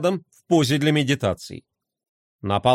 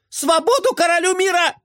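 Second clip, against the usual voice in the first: triumphant cry; 13 semitones higher than usual. A narrator's reading. Toy cries from under sock.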